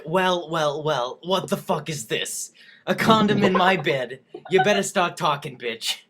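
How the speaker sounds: a hint of Joan Rivers scolding, punchy and rude; Joan Rivers impression. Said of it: "Maybe I could do it like Joan Rivers".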